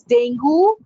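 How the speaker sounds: "dengue" ending in goo; wrong pronunciation. Shown as a demonstration. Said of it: "It's not dengue".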